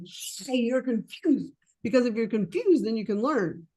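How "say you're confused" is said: slow deliberate. Shown as a demonstration. Coach showing the trainee how to say it, slow and deliberate. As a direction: say it slowly, owning the word confused. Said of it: "I'm like".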